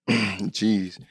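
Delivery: raspy worn voice; hoarse voice. Real, not acted. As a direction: strain through a sore throat. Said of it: "my voice is horrible".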